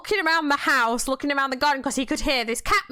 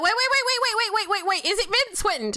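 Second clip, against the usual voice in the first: excited; 7 semitones higher than usual. Retold or imitated. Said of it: "And I was like".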